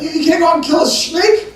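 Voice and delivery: high, loud, shocked disbelief. Retold or imitated. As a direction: squeak it out, stunned she'd go. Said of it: "so I said".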